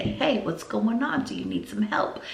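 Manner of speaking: soft, gentle check-in; calm, soft voice. Acted. Teacher down at a child's level, calm and soft. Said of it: "talking in a very calm, soft voice".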